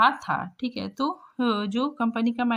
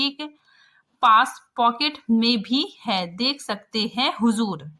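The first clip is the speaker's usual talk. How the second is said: story reading. A narrator's reading. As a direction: clear reading of the passage and its quote. Reads the story text aloud. (कहानी पाठ)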